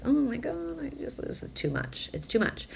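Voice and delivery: put-on high, strained voice of a swamped kid; lightly voiced overwhelm, too much for me; overwhelmed young self. Young her in a crowded family room, overwhelmed. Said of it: "And I was like".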